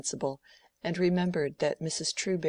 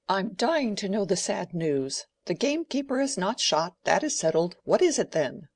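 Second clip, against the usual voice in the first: louder, higher, impatient demand; 4 semitones higher, 5 dB louder than usual. A narrator's reading. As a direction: press him for the news, impatiently. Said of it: "impatient of this drivelling".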